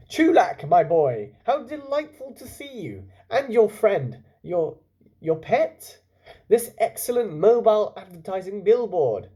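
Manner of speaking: high, loud, gushing host; jolly showman uncle. Acted. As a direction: welcome everyone like a showman. Effusive restaurant owner greets guests.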